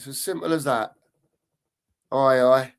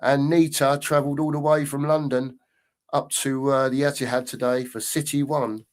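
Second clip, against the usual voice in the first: commentary voice. Shown as a demonstration. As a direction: practise a radio commentary read. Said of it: "Do you see how I'm, uh, changing the voice here?".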